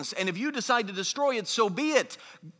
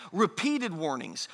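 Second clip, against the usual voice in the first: "repeated" drawn out slowly and deliberately; stress on REPEATED; 3 semitones lower than usual. Real, not acted. Preacher underlines "repeated" warnings to the congregation, slow stress. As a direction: lean on the word "repeated". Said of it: "emphasize that word more than that".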